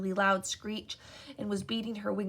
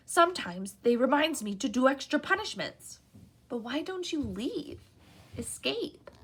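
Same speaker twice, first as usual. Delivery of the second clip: eager house elf; 4 semitones higher than usual. A narrator's reading. House elf meeting Harry, high and eager. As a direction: gush like an awed little elf.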